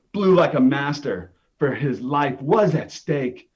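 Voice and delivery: usual speaking voice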